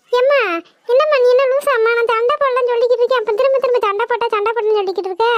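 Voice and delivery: yelling in protest. Acted. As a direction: protest crossly, rushing towards the end. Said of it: "ஏன்டி இப்படி கத்திக்கிட்டு இருக்க?".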